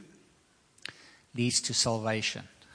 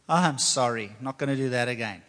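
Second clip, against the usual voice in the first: a quick, offhand apology without meaning it; careless sorry. Retold or imitated. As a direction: toss it off like an empty promise. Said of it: "What's the sorrow of the world".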